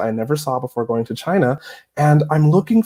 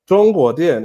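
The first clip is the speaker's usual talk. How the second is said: louder, overdone learner's Mandarin; exaggerated Chinese accent; 5 dB louder than usual. Foreigner miming to grandmas in the electronic section, exaggerated Mandarin. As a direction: push the tones hard, playing it up. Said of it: "我这个口音是夸张的".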